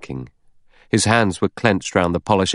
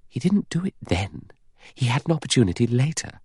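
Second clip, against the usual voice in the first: higher-pitched, lightly voiced woman character; Vera; 6 semitones higher than usual. Vera answering Lombard's doubts, in a higher pitch. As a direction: counter him in a lighter, higher voice.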